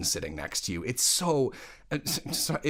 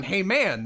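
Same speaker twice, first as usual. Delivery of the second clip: "man" lifted upward; upward inflection; 5 semitones higher, 3 dB louder than usual. Retold or imitated. Director quoting the reading he hates, upward inflection. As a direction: copy the unwanted rise on "hey, man". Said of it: "with the upward inflection on".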